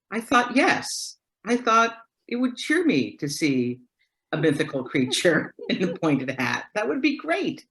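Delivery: Edward's delighted quote. Retold or imitated. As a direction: lift way up, mock childlike wonder. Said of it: "And he said to me".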